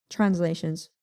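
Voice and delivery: "translations" in a European accent; playful European accent. Shown as a demonstration. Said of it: "Here's my European accent, guys".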